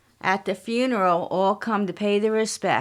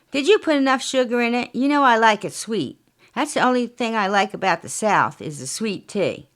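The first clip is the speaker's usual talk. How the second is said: pushy wife, higher and fast; lightly voiced bossy Southern wife; demanding wife; 3 semitones higher, 3 dB louder than usual. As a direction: demand your tea be sweet. Franny demands sweet tea.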